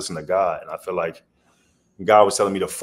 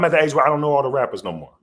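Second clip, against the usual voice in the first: fast comic admission; 7 semitones higher, 5 dB louder, faster than usual. Real, not acted.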